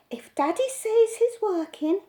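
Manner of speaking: put-on a mother putting her child in his place; mock mother's lecture. A narrator's reading. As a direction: lay down the law to a small boy.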